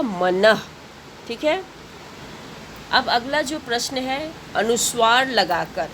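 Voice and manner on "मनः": मनः said with a breathy ह-like release after the final vowel; visarga demo. Shown as a demonstration. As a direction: pronounce मनः ending in a short breathy puff, man-ah-h. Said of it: "शब्दों का उच्चारण करना होगा". (मनः को विसर्ग के साथ, अंत में हल्की ह ध्वनि)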